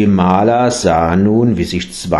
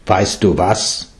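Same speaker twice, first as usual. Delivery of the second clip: firm; 2 semitones lower, slower than usual. Acted. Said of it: "ruhig, aber fest an".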